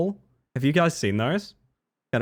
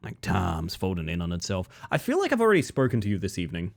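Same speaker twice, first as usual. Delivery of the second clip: low, hushed, ominous stranger; creepy stranger; 7 semitones lower, 5 dB quieter than usual. Acted. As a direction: speak low and knowingly, like a haunting. Voices the eerie stranger.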